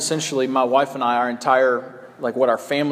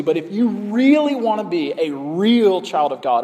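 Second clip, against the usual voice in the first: quoting false teachers; 3 semitones higher than usual. Retold or imitated. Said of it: "and they say".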